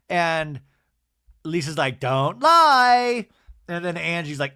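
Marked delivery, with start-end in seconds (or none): 2.0-3.3 high, loud mock yell; acted-out raised voice; accusing shout. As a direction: hurl it as an imitated accusation. Lisa's accusation, retold.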